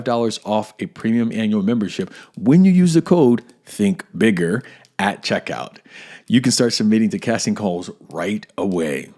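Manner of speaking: measured, punchy podcast ad read; sponsor ad read. Acted. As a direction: sell it crisply, key words punched. Reads a sponsor ad.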